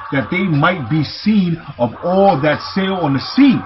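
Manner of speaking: declaimed verse, phrase by phrase; scripture reading. Acted. Preacher reading of pillars and kings to listeners, scripture reading. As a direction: read it out firmly as holy writ.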